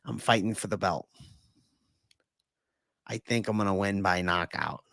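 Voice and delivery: deadpan fighter interview; quiet understated Justin Gaethje; Gaethje impression. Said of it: "Gaethje impression".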